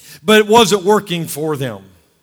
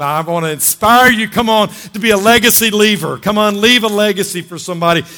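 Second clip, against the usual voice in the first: louder, rising exhortation; fired-up call to leave a legacy; charged-up preaching; 4 semitones higher, 6 dB louder than usual. Real, not acted. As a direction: pump the crowd up. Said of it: "I'm excited today".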